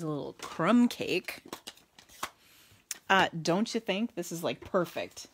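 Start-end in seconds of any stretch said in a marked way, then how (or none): 3.1-5.3 put-on playful Minnesotan accent. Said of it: "don't you like my Minnesotan accent".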